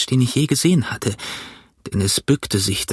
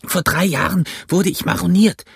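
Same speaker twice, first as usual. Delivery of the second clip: put-on old castaway; 7 semitones higher than usual. A narrator's reading. Castaway telling Jim he was marooned, rough voice.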